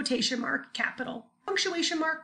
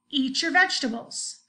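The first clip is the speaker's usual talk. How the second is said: mock mom yell. Shown as a demonstration. Teacher playing a mom yelling about vegetables. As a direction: call out like a mom at dinner. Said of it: "moms have to yell that".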